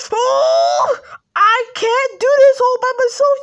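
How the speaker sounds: loud, high pretend yell of frustration; a kid making a toy yell at the others; frustrated yell. Toy figure yells at others.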